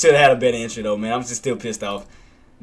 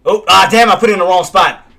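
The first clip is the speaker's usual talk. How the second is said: real dismay; 4 semitones higher, 6 dB louder than usual. Real, not acted. Realizes mistake.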